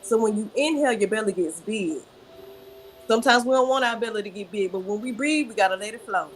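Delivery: unhurried breathing instructions; guided breathing. Shown as a demonstration. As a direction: lead them through the breath gently. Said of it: "So show me how you breathe from the belly".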